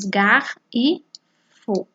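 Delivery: "gar" and "fo" said as separate beats; teacher separating "garfo" into syllables; syllable split. Shown as a demonstration. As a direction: break "garfo" apart slowly. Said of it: "na separação de sílabas".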